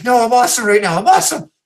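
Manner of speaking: high mocking imitation of her ecstatic reply; high woman's voice. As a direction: pitch it up high as he mimics her in bed.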